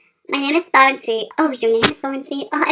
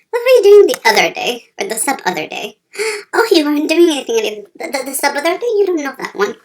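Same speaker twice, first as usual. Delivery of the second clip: excited shrill questioning; 3 semitones higher, 4 dB louder than usual. Acted. Sudden high loud gasping.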